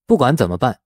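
usual speaking voice

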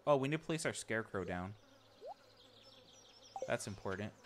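usual speaking voice

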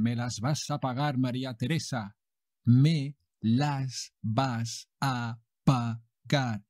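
slow menacing soap villain threat; silky menacing villain. Acted. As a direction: threaten her slowly, smooth as silk. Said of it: "Juan José Jesús de los Huevos goes on".

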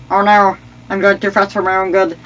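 mock game panic. High excited playing, mock alarm.

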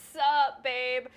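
lightly voiced drunk frat dude; slurring frat bro voice; drunken Todd voice. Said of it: "in a very drunken Todd voice says".

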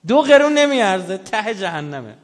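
high, loud cry that it is worth nothing; preaching shout. Real, not acted. Preacher to his audience on worthless prayer, loud preaching cry. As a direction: hurl it at the congregation at full force.

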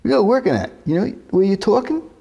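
put-on professor's words in a broad New York accent, high and loud, fast at the end. Student retells his professor's warning in a loud New York accent. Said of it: "and the guy says".

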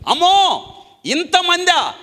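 high startled cry of alarm; a king suddenly scared at the crowd; frightened gasp. Acted. Frightened king Balak crying out at the multitude.

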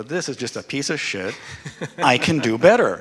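mock indignation, building to loud; imitating a fed-up student, rising in volume; pissed off. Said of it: "They'll get pissed off".

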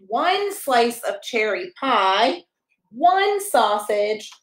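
bright, sing-song picture book reading; reading to a child. Acted. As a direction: read it like bedtime story time for a toddler.

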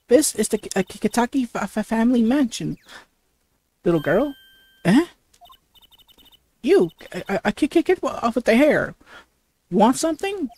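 a hint of a tough matriarch sizing up strangers; husky-voiced woman. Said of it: "the voice I did with".

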